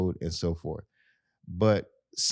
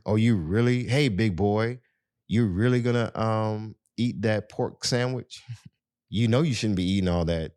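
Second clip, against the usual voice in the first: teasing; 3 semitones higher than usual. Retold or imitated. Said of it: "some women do, they tease".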